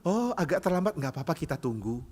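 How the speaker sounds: lenient, softening as it goes; tolerant, forgiving. Acted. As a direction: let the latecomer off gently. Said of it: "biasanya lebih toleran dan pemaaf".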